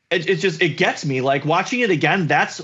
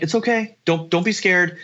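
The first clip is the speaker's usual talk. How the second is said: reassuring. Retold or imitated. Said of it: "he's like".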